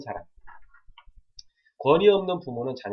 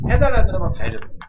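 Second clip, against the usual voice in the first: much higher and louder, nearly shouted; loud emphatic repeat; 9 semitones higher, 13 dB louder than usual. Real, not acted. Preacher stressing his warning to parents, loud. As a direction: hammer the point home with a burst.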